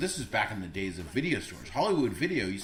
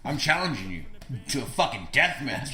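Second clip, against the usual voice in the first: trash-talk challenge. Pretend. Challenging Uwe Boll to fight.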